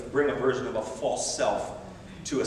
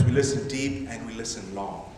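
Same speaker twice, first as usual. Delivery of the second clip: deep and long leaned on, lower; stress on deep and long; 4 semitones lower than usual. Shown as a demonstration. Preacher giving a quotable line to the church. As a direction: weigh each of deep and long. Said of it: "I like to say it like this".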